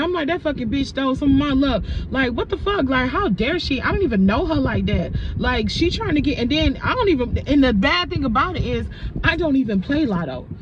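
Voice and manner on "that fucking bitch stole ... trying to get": indignant rant, a little raised; retold anger. Woman retelling her anger over stolen luck, indignant. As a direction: relive the outrage without shouting. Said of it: "I was still goddamn mad".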